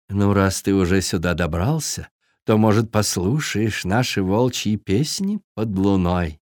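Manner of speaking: wolf mother voice. Acted. Wolf mother invites fawn.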